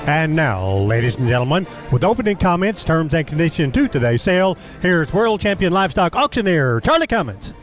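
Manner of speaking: broadcast intro voice; announcer. Acted. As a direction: introduce the show like radio.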